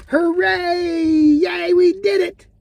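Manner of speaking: high, loud joyful cheer. Acted. Puppets cheering as they move up, excited shout. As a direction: shout it out in triumph.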